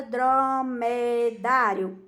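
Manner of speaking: "dromedário" slowly split into syllables, "dá" held. Shown as a demonstration. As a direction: draw out "dromedário" syllable by syllable for children. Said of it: "o som mais forte está no dá".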